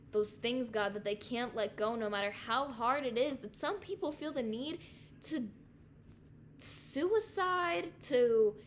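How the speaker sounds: real, unhurried plea to God; heartfelt prayer. Real, not acted. Prays aloud over the listeners.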